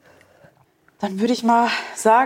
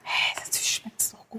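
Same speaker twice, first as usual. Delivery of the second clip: whispering; 9 dB quieter than usual. Real, not acted. Tasting the food, aside.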